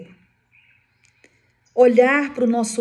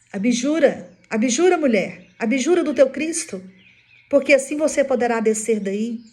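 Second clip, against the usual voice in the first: raised, higher, insistent order; commanding demand; 4 semitones higher, 5 dB louder than usual. Retold or imitated. Executioners order the condemned woman to renounce, acted commanding shout. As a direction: press the demand loudly, phrase after phrase.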